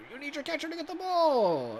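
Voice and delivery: high, loud frantic shout. Real, not acted. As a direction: yell it at the screen. Yelling at a bad play.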